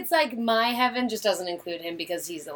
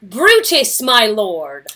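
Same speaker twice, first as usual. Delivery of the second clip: earnest wife pressing her husband, a bit raised; Portia pleading with Brutus; 3 semitones higher than usual. Acted. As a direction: plead with him, worried and insistent. Reads Portia in a scene.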